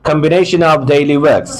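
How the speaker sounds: slow "combination of daily works" without the r; r dropped in works. Shown as a demonstration. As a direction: say "works" as "wəks", slowly and linked. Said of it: "এখানে ওয়ার্কস এর আরটা বাদ যাচ্ছে". ("works" এর আর বাদ দিয়ে ধীরে বলা)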